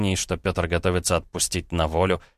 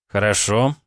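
soothing tone; 3 semitones higher than usual. Acted. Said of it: "успокаивающим тоном".

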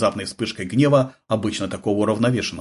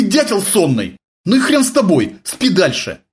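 higher and louder scolding; annoyed yelling; 10 semitones higher, 5 dB louder than usual. A narrator's reading. Sergeant chewing out his sleepy radio operator, annoyed and loud.

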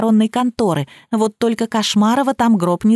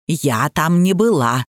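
slow, lower, stubborn repeat; insistent denial; 6 semitones lower, slower than usual. A narrator's reading. The widow keeps denying to the boss, slowly and stubbornly. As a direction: dig in and repeat it, word by word. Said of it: "настойчиво повторяла вдова".

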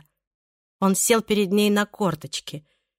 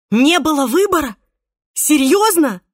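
high, loud incredulous retort; outraged disbelief; 7 semitones higher, 7 dB louder than usual. A narrator's reading. Irene to Pablo, outraged and incredulous. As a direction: throw his excuse back at him.

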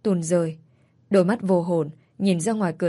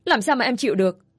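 higher, rising indignation; indignant protest; 5 semitones higher than usual. Acted. Wife to her cheating husband, higher indignant protest. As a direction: throw the betrayal back at him.

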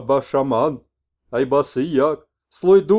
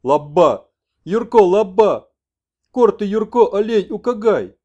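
much higher, loud exclamations; excited shaman; 8 semitones higher, 10 dB louder, slower than usual. Acted. Messenger joyfully tells the old man Yurko will come. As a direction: cry it out joyfully.

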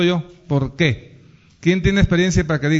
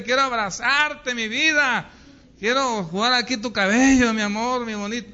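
higher, sugary imitation of a couple in love; mock lovey-dovey sweet talk; 4 semitones higher than usual. Preacher imitates sweethearts cooing over the phone, higher and sugary. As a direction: playfully coo like newlyweds on the phone. Voicing sweethearts texting lovingly.

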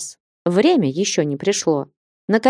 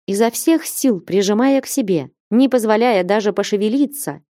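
plain reading voice

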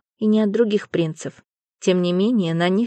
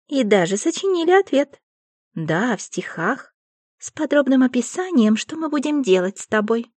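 high, eager giggly fairies; excited seductive fairy chatter; 4 semitones higher, 4 dB louder than usual.

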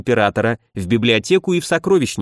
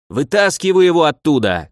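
shout; 3 semitones higher than usual. Acted. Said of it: "крикнул всё тот же неприятный голос".

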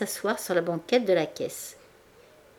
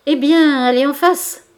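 loud, higher outburst of held-back rage; angry shout; 7 semitones higher, 10 dB louder than usual. A narrator's reading. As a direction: snap it out as the anger finally breaks. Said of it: "Il cria, secoué de colère contenue".

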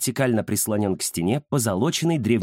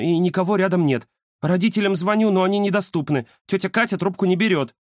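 put-on frightened girl; 7 semitones higher than usual. A narrator's reading. The scared girl begs her friend on the phone, high and anxious. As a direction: plead for your friend to come over.

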